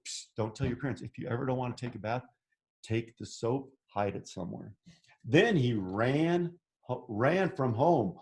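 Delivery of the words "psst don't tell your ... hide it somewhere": conspiratorial aside. Pretend. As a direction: let the kids in on a secret, softly. Secret advice to child listeners.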